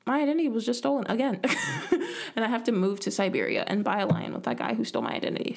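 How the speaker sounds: fast, laughing through words. Real, not acted. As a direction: giggle through the joke. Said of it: "joking, laughing".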